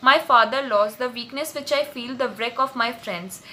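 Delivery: slow, deliberate Shakespeare recital; teacher reading a play aloud to students; slow dramatic reading. Acted. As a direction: read the verse slowly, weighing each word. Reads Ferdinand's line slowly.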